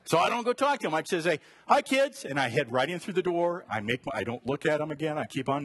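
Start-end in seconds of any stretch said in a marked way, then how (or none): 1.7-2.2 cheery hi. Retold or imitated. Quick greeting to kids.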